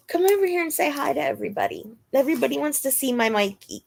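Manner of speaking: high, fast coaxing to the dog; sing-song pet voice; dog talk. Real, not acted. Talking to her dog Mikey.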